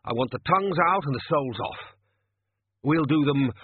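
loud bossy kitchen orders; barking orders. Acted. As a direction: shout orders at the staff.

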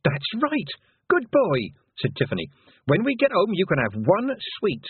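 put-on high-pitched praise for a toddler; praising. A narrator's reading. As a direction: encourage a little child. Sister praises small brother.

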